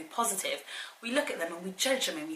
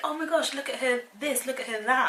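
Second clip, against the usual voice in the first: gushing mum; 7 semitones higher than usual. Pretend. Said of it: "I'd be like".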